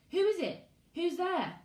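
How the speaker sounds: put-on high, loud girl's call; scared girl calling. Girl calls out from bush.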